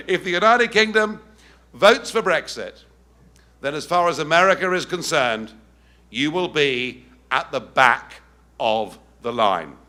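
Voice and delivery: mock American accent, slowing at the end; a half-done Obama with an American lilt; imitating American accent. Speaker mimics Obama's warning to Britain in a slowing American accent. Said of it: "I can't quite do the accent, but I'm trying".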